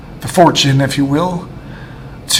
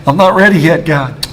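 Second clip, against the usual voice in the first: laughing plea; 3 semitones higher, 3 dB louder than usual. Retold or imitated. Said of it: "I was like".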